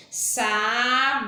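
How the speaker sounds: "Sabonete" drawn out slowly, syllable by syllable; slow syllable count. Shown as a demonstration. Teacher counting syllables of "Sabonete" for pupils, slowly. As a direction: stretch "Sabonete" so each syllable is heard. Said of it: "Quatro sílabas".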